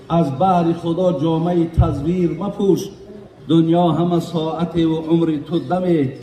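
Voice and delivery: slow, measured chant of a quatrain; poetry recitation. Acted. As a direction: recite the verse in drawn-out, lilting lines. (қироати оҳистаи рубоӣ)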